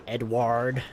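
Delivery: "Edward" in an imitated American accent; put-on American "Edward". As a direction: try "Edward" as an American says it, with a sounded R. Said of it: "how do Americans say it?".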